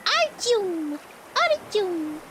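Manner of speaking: drawn-out mock Russian name call on Artyom; lightly put-on Russian accent; imitation Russian accent. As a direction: imitate a Russian calling out slowly. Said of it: "His accent is so cute".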